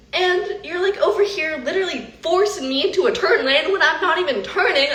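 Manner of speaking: heated retelling of an indignant complaint; mad protest. Retold or imitated. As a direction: plead your case to a bad driver, mildly mad. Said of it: "It made me so mad".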